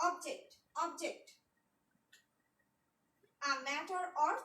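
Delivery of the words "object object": slow model word. Shown as a demonstration. Teacher to students repeating after her, slow clear model. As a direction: Object said slowly and clearly, each syllable apart. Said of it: "You pronounce after me".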